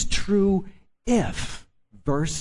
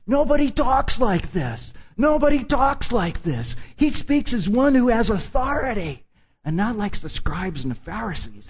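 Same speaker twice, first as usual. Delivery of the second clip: amazed crowd; 5 semitones higher than usual. Retold or imitated. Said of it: "And it was like".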